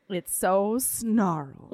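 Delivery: seductive suitor. Retold or imitated. Bill's line continues after interjection.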